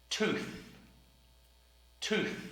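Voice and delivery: Tooth, th at the end. Shown as a demonstration. Teacher drilling the word Tooth. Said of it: "T H sound at the end of the word".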